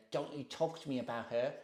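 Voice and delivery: softly imitated woman's rebuke; a quiet, mimicked warning-off; imitating a touchy mother. Woman refusing to discuss her daughter, imitated quietly. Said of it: "the way she looked at me and said it".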